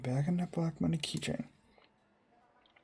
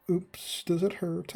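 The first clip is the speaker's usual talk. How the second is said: higher, taunting fake sympathy; mock concern; 4 semitones higher, much slower than usual. One student needles another about family, mock-innocent. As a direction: pretend to care, pitched up to needle them.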